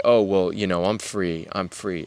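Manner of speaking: quiet, dismissive mock of a smug believer; mocking a self-deceiver, softly and smugly; mock self-assurance. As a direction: toss it off as a hollow excuse. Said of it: "we can fool ourselves all day long to say".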